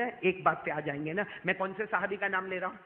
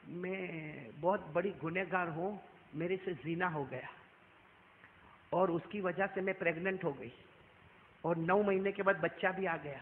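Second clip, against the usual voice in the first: tearful confession; 4 dB quieter than usual. Retold or imitated. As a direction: confess through tears, barely audible. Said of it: "عورت روتے روتے کہتی".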